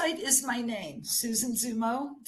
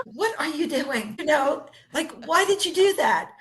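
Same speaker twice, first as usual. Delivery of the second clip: retold angry self-scolding; 4 semitones higher, 5 dB louder than usual. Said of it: "And I was so mad".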